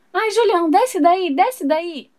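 high scolding. Acted. Hannah scolds Julian off furniture.

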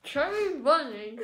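slow, mouth crammed with marshmallows; cheeks stuffed full. Real, not acted. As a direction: push the words past puffed cheeks. Challenge phrase with stuffed mouth.

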